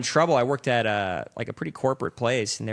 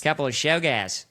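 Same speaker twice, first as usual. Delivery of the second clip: higher, broad Australian echo; Australian accent; 4 semitones higher than usual. Acted. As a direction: mimic the Australian movie line. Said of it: "funny about an Australian accent".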